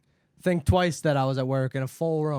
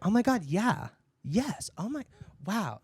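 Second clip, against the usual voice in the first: excited thanks; 5 semitones higher, slower than usual. Retold or imitated. Friend group thrilled about tacos.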